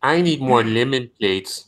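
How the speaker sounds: slow, high Mexican cleaning lady voice. Retold or imitated. Mocking a cosplayed Mexican cleaning lady.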